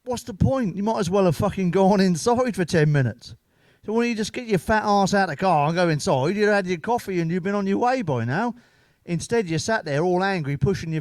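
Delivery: mock-furious telling-off; exasperated rant. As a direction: let rip at the lazy bloke. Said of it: "I was like".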